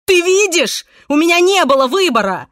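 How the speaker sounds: high, loud insistence; desperate shout. A narrator's reading. Pablo shaking Irene, shouting his excuse.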